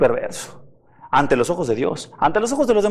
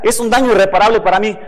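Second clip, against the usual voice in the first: rushed, louder self-pitying complaint; quick indignant protest; 4 semitones higher, 4 dB louder, faster than usual. Retold or imitated. Preacher mimicking a hurt believer, fast indignant protest. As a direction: hurry it out, aggrieved.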